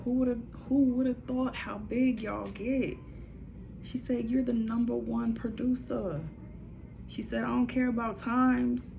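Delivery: excited praise. Retold or imitated. Channelled praise for the producer.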